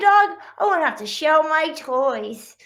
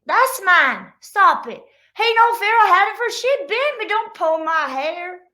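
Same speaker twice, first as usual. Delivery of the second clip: put-on squabbling kids; 7 semitones higher, 5 dB louder than usual. Siblings fighting over toys.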